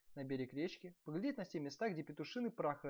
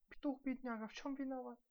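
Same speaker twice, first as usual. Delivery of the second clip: high-pitched plaintive servant, only a hint of secrecy; whispered pity; 10 semitones higher than usual. A narrator's reading. Second servant pitying the rooster, high plaintive murmur. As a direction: pity the poor bird in a high voice. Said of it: "шепнул другой".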